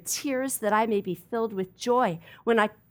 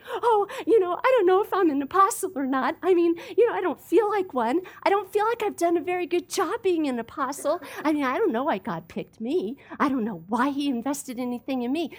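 higher, mock insecure hemming and hawing; doubtful believer; 5 semitones higher than usual. Preacher mocking a doubter's excuses, hesitant and unsure. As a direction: play the unsure Christian who doubts himself. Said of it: "Paul isn't saying".

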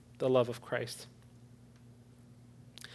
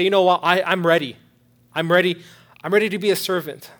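loud, higher declaration of readiness; fired-up declaration; 6 semitones higher, 12 dB louder than usual. Acted. Preacher voicing a listener ready to serve, loud and fervent. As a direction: burst out with rising conviction.

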